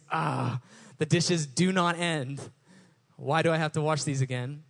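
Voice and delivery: mock whiny grumble over the dishes; half-hearted moan about chores; complaining tone. Pastor mimicking his own complaining at the sink, mildly whiny. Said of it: "if my tone around washing the dishes".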